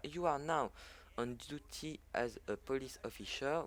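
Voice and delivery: English read with a French accent. Real, not acted. Gamer reading a loading message to viewers, French-accented English. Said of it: "mon accent anglais impitoyable".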